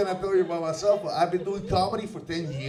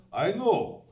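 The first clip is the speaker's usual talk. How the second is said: higher, drawn-out proud suggestion in broken language; mother's broken speech; 4 semitones higher, slower than usual. Acted. Comedian's mother answering the head nurse, broken-language suggestion. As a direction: offer it slowly, as a non-fluent mother. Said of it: "who doesn't speak Dutch very well".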